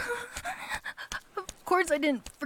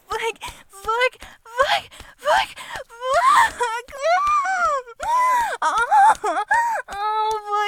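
climactic cries; 8 semitones higher, 6 dB louder, much slower than usual. Acted. Climax out on the balcony.

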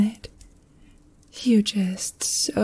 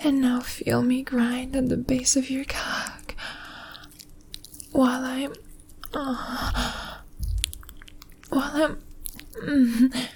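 breathless intimate whisper, moaning between words; sensual whisper; 4 semitones higher, 5 dB quieter than usual. Acted. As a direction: whisper it close, breathy and aroused. Intimate aroused whispering throughout.

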